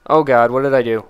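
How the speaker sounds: loud dismayed cry. Real, not acted. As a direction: blurt it in shock.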